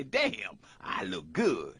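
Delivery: deep, pleased with himself; smug self-admiring. Retold or imitated. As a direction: admire yourself in the mirror. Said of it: "you talk funny".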